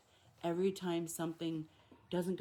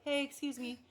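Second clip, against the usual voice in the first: polite; 7 semitones higher than usual. Shown as a demonstration. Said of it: "to like".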